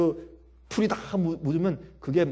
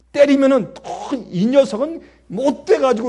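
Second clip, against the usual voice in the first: higher, louder sharp reproach; mild mock scolding; 8 semitones higher, 9 dB louder than usual. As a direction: play a harsh parent. Imagining scolding a child.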